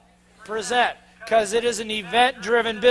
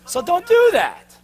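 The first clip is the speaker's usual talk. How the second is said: emphatic warning; 8 semitones higher, 5 dB louder, slower than usual. Real, not acted. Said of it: "emphatic warning to audience".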